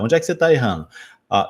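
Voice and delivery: ordinary delivery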